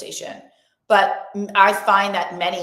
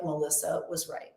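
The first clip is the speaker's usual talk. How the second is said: mock realization; 4 semitones lower, 10 dB quieter than usual. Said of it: "you will be like".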